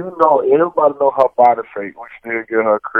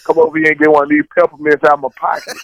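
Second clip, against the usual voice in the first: sleazy pickup line; 3 semitones higher, 3 dB louder, faster than usual. Pretend. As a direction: lure them over like a creep. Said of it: "Sound like a creep".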